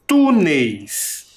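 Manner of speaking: Túneis with a long, punched TÚ, falling on neis; stress on TÚ. Shown as a demonstration. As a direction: hit and hold the TÚ in Túneis. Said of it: "Identificou a sílaba tônica?". (Túneis com o TÚ forte e alongado)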